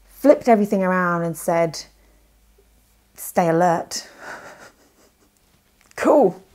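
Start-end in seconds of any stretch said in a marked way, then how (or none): none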